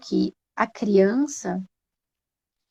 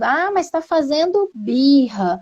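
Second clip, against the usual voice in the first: higher, drawn-out protest; mock objection; 5 semitones higher, 3 dB louder, slower than usual. Parent objecting that the crying child is throwing a tantrum, mock protest. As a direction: imitate a doubting parent, stretching the words.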